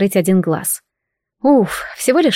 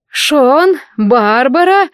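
higher-pitched, bright greeting call; calling out names; 5 semitones higher, 3 dB louder, much slower than usual. A narrator's reading. Latecomer headmistress greeting Шон and Барбара, calling out. Headmistress calls out on arriving late.

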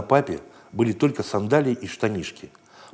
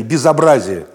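louder indignant exclamation; crowd outcry; 2 semitones higher, 7 dB louder, slower than usual. Acted. Passers-by shouting at the scandal, louder. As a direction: cry out in outrage. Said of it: "Прибежали разные люди и кричали".

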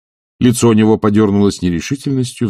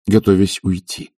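ordinary delivery, nothing marked

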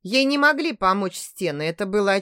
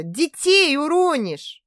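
high, slow raised warning; alarmed warning; 6 semitones higher, 3 dB louder, slower than usual. Acted. Grandmother fearing the babies will fall, alarmed warning. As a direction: call out in alarm. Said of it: "воскликнула Рената".

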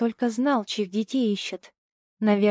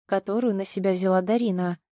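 plain reading voice

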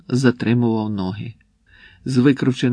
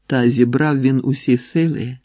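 ordinary delivery

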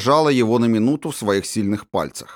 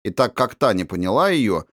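ordinary delivery, nothing marked

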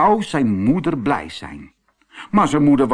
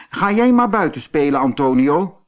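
shooing away; 4 semitones higher, 5 dB louder than usual. Acted. Mother sends him out.

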